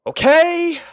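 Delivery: a sudden high, loud "Okay?"; incredulous outburst. A narrator's reading. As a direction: throw it up high in disbelief. Gives up, accepts it is real.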